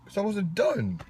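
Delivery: high-pitched mock protest; playfully indignant. Real, not acted. Interrupted host to co-host, playfully indignant. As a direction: complain high and put-upon.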